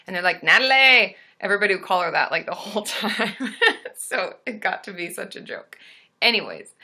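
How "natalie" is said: loud mock-Australian "Natalie"; Aussie accent. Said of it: "it sounds so very different in an Aussie accent".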